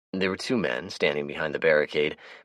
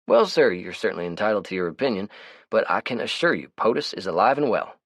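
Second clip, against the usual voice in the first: higher, brighter character voice; Melvin's voice; 5 semitones higher, 3 dB louder than usual. Acted. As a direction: play the chatty, easygoing Melvin. Melvin voices his lines.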